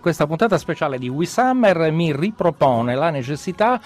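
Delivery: freed and talking loud; loud burst. Acted. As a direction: project it out, energized. Freed host bursts out loudly.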